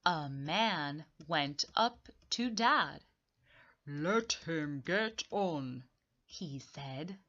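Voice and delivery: slow half-whispered narration; story reading. Acted. Teacher reading the story aloud, slow and hushed. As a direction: hush it like a secret.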